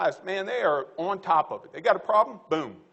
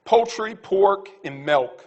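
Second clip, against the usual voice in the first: louder, punched list of words; emphatic list; 2 semitones higher, 6 dB louder, much slower than usual. Real, not acted. Speaker closing his talk, announcing a punchy list. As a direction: announce each item firmly. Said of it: "I'm gonna say one last thing".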